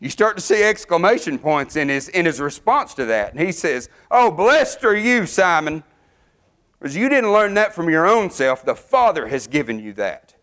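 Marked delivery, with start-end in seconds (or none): 4.1-10.3 a lift of excited joy in Jesus' blessing; bright, delighted praise, voice climbing high. Retold or imitated. Preacher voicing Jesus praising Peter: excited. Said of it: "you can hear the excitement in the Lord's voice".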